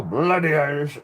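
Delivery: loud, high mock Irish accent, laughing; Irish accent impression. Streamer showing off their best Irish impression, loud put-on Irish accent. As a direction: belt out a hammed-up Irish accent. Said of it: "best Irish impression I've done so far".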